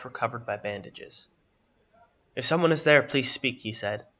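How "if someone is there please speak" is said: put-on lightly raspy old man calling out; a louder appeal with a hint of old-man rasp. A narrator's reading. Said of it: "the raspy voice of the man".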